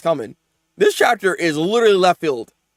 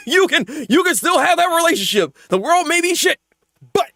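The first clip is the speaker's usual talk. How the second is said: laughing; 10 semitones higher than usual. Pretend. Laughing mock reassurance.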